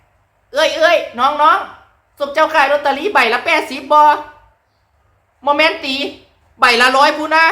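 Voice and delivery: high-pitched Chaiyaphum town lottery haggling; Chaiyaphum town dialect. Shown as a demonstration. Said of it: "อันนี้เว้าภาษาเมียงเลยให้ฟัง".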